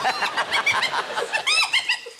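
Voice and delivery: high whooping hyena cackle; hyena laugh. Shown as a demonstration. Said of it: "Would you like to hear a hyena laugh".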